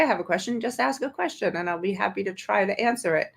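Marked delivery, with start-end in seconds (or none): 0.0-0.6 mock quote. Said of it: "don't say".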